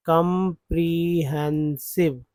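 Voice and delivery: कॉम्प्रिहेंसिव slowly, ending clearly in सिव; teacher models कॉम्प्रिहेंसिव slowly; slow pronunciation demo. Shown as a demonstration. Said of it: "सिव है".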